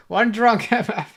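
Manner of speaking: laughing through it. Real, not acted. Repeats meme while laughing.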